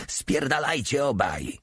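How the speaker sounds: wounded sergeant shouting at the intruders; shouted. A narrator's reading. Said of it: "wrzasnął jakiś ranny feldwebel".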